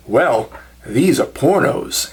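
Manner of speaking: slow, lightly put-on Southern accent; imitated Southern accent. Husband handing over DVDs, slow imitated Southern accent. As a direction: draw it out in a rough Southern accent. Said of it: "like, a southern accent to them".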